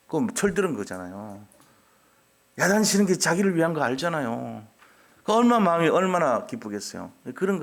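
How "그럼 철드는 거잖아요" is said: ordinary delivery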